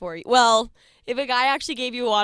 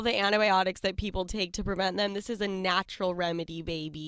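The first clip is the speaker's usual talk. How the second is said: ad read; 4 semitones lower, 5 dB quieter than usual. Acted. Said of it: "That was beautiful the way you just said that".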